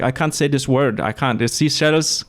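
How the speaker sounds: put-on Dutch-accented English, tripping on "seashells"; imitated Dutch accent. Host imitating a Dutch man failing a tongue twister, Dutch accent. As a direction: mimic a Dutchman struggling with English. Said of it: "he couldn't say, um, uh, seashells".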